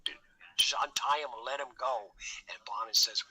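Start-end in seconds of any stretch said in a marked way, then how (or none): 0.0-2.1 a retold plea for the man's release; retold begging. Narrator begs his accomplice to untie the man, pleading. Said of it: "I'm begging with him".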